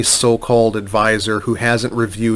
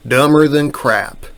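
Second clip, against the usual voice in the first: slow, lightly imitated Tennessee drawl; Tennessee accent; 3 semitones higher than usual. Lawyer quoting the adviser, mock Tennessee accent. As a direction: quote him in a mild Tennessee accent. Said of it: "I do this in his, uh, Tennessee accent".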